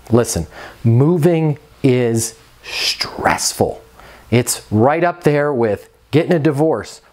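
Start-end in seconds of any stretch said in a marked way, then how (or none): 0.1-3.8 slow unvoiced whisper to yourself. Shown as a demonstration. Manager reminding herself in her head, slow whisper. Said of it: "say this over and over in your head".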